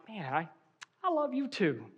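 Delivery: softly touched, a little breath before it; tender reply. Acted. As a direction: say it quietly, moved by the words. Touched reply to spouse's love.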